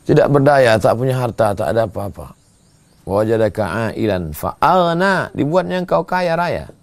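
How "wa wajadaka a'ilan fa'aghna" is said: Quran recitation. Acted.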